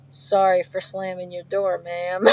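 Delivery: lightly voiced polite Southern gentleman. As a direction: imitate a calm, apologetic Southern man. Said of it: "he's a Southern gentleman from down south".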